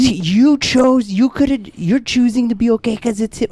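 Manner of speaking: put-on high, slow accusing girlfriend; girlfriend quoted. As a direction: spell out her discovery, amazed. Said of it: "She goes".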